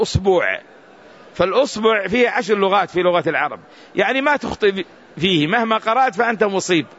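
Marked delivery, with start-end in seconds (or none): 0.0-0.6 أصبوع said "us-buu'", with long u; long waw sound in أصبوع; tenth variant. Shown as a demonstration. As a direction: draw out the second vowel of أصبوع. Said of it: "والعاشرة".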